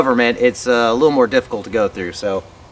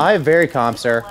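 fake calm; 2 semitones higher than usual. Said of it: "calm your tone".

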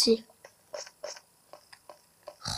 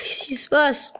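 worried; 3 semitones higher than usual. Real, not acted. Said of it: "Je tremble de partout".

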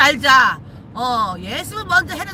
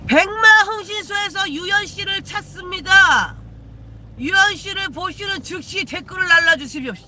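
mock public announcement; 4 semitones higher than usual. Mock detective agency announcement.

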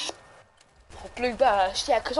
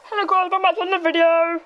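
higher, sing-song vlogger greeting; video intro voice; 6 semitones higher than usual. Pretend. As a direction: announce it like a YouTube intro.

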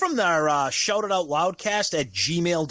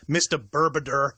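lower, deliberate mock-formal address; 4 semitones lower than usual. Real, not acted. Podcaster addresses a listener by his odd name, mockingly. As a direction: say the name as if poking fun at him. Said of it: "saying it like you're mocking him".

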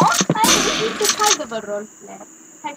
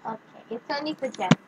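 put-on French accent; 4 semitones lower, 8 dB quieter, faster than usual. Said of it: "putting on the French accent".

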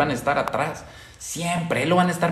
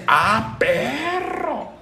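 mock viewer; 8 semitones higher, much slower than usual.

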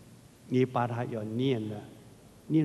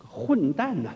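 scolding shout; 2 semitones higher, slower than usual. Retold or imitated. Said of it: "很不客氣地就大罵一聲".

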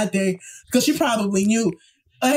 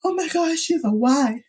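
crying; 5 semitones higher than usual. Retold or imitated. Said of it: "Bitch, I was boo".

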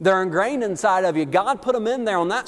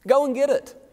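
urging command; 7 semitones higher than usual. Retold or imitated. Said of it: "He says".

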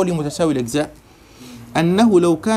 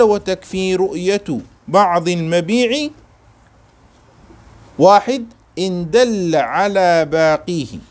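slow dictation; slower than usual. Shown as a demonstration. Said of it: "slow dictation of the text".

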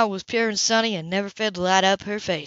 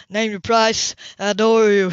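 louder, gushing gratitude; overjoyed thanks; 5 dB louder than usual. Acted. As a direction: lay the adoration on thick.

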